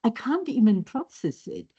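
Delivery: a hint of a gushing American lady; lightly voiced American woman; mild gushing American tourist. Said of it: "that's the American voice".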